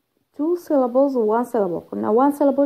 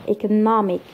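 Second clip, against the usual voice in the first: "economic" with NOM stressed; stress on second-last syllable. Shown as a demonstration. Teacher repeating the -ic example, penultimate stress on "economic". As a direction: put the weight on NOM in "economic". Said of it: "Second from the end".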